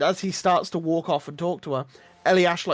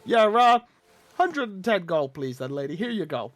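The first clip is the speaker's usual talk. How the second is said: put-on leering wheezy old man. GM holds Gunther's voice.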